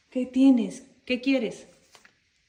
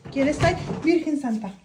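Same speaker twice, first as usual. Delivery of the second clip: frightened call; 3 semitones higher, 6 dB louder than usual. Real, not acted. Calling out, frightened.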